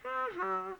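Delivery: high mocking ha ha; taunting squirrel laugh. Squirrels taunting Poo Poo, high mocking laugh. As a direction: sneer it like a squirrel in a tree. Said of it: "the squirrels up in that tree saying".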